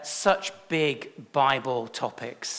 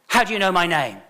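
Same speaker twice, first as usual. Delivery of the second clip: louder, higher, stunned; startled question; 5 semitones higher, 8 dB louder, faster than usual. Retold or imitated. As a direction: blurt it out, caught off guard. Mary startled by Jesus.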